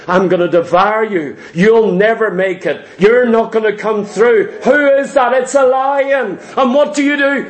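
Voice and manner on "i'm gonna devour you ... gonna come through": lightly voiced devil, dropping lower at first; a hint of a menacing lion's taunt. The devil taunts the believer in a lightly lowered voice. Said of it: "He roars at you, says".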